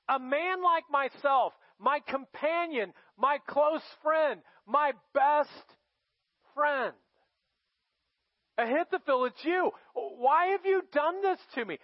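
a wounded king rising from plea to outcry; anguished cry to God. Acted. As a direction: cry out to the friend who betrayed you. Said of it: "he's crying out to God".

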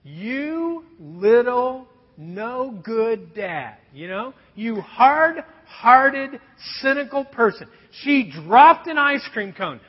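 a hint of a reproachful wife, slow; wife's scolding look. Imagined wife scolding the hard-hearted dad, mildly voiced. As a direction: drag out the disapproval like a wife's glare. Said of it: "this is what the look says".

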